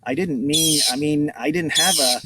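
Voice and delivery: halting, flustered false starts; mildly flustered boy, stammering; awkward stammer. Acted. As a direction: stumble over the explanation. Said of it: "Mitch stammered awkwardly".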